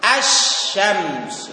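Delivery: "อัช ชัมส์" split, doubled sh replacing the l; silent lam. Shown as a demonstration. Teacher contrasting sun with moon letters, lam silent. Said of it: "อันนั้นเรื่องลาม".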